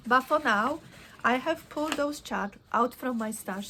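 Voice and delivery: talking while licking her fingers; words around a fingertip in the mouth. Real, not acted. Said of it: "Sorry, I'm licking my fingers".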